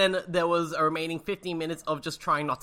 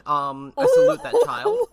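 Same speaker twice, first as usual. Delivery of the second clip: laughing; 9 dB louder than usual. Real, not acted. Laughing after being roasted.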